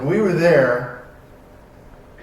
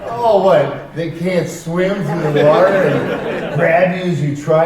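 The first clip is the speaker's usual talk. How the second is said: alarmed disbelief; 3 semitones higher, 4 dB louder, slower than usual. Retold or imitated. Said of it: "I'm like".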